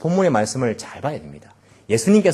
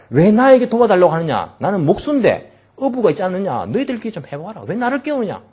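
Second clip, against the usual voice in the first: higher, lightly mocking brush-off; mock grumpy Jesus; 6 semitones higher, 3 dB louder than usual. Imagined Jesus refusing to help, mock irritation. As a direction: shoo them off, half-joking. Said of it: "야단치신 것은 아니었습니다".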